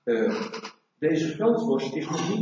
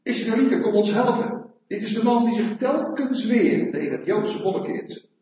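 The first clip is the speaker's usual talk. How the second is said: higher-pitched, mildly raised call for help; mock crowd cry; 5 semitones higher than usual. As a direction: call out like an accusing crowd, without full shouting. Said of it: "Ze schreeuwen".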